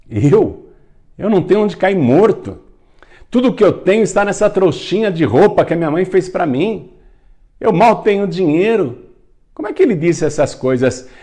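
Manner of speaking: high, loud, disbelieving protest; acted incredulity. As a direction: protest in amazement, pitch jumping high. Boy disbelieves old man's prophecy. (incredulidade encenada, em voz alta e aguda)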